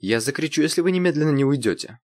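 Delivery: high threatening warning. A narrator's reading. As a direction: threaten him sharply. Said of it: "пригрозила Ирина".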